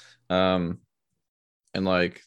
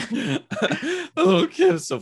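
very high, slow, laughing squeak; teasing his friend back with an exaggerated cracking voice; cracking squeaky voice; 3 dB louder, slower than usual. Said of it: "nice voice crack".

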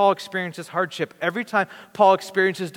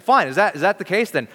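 Peter all in, a bit louder and faster; eager Peter; 4 semitones higher, 5 dB louder than usual. Retold or imitated. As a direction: push it like an eager disciple saying do it all. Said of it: "he's that enthusiastic about it".

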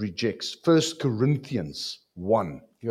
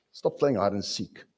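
ordinary talk, nothing marked

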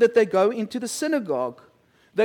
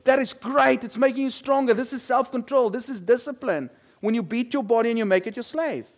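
coach's cheer; 3 semitones higher, 3 dB louder than usual. Retold or imitated. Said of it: "I said".

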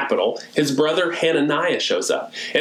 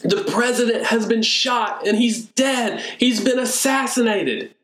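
mock tearful news; 8 semitones higher than usual. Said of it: "I can barely get out the words".

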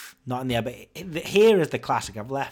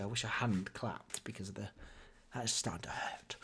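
whispered aside, much softer; 4 semitones lower, 17 dB quieter than usual. Real, not acted. Podcaster admitting his hands hurt from clapping, whispered. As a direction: drop to a whisper.

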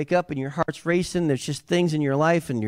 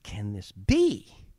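mock awe; 5 semitones lower, 3 dB quieter, much slower than usual.

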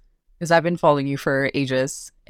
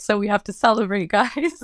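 playful announcement; 5 semitones higher than usual. Retold or imitated. Retelling her announcement to parents.

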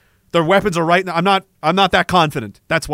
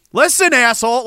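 higher-pitched mock tough command; imitated angry order; 6 semitones higher, 4 dB louder than usual. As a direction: play a soldier losing patience. Acting out soldier's threat.

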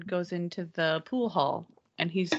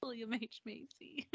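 giggling disbelief; 7 semitones higher, 10 dB quieter than usual. Real, not acted. Laughing at the casting idea.

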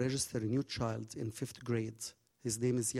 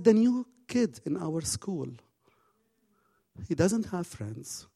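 put-on higher, louder boy voice; earnest boy; 5 semitones higher, 4 dB louder than usual. Mark explaining the new kid to Nadia, earnest boy voice. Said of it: "He said".

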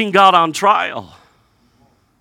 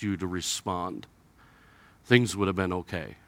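quiet reproach; 7 semitones lower, 6 dB quieter than usual. Retold or imitated. Martha to Jesus, a soft hurt reproach. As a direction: reproach him gently.

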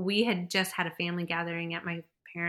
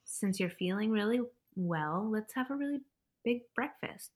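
calm, grounding suggestion. Retold or imitated. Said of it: "his suggestion was just like".

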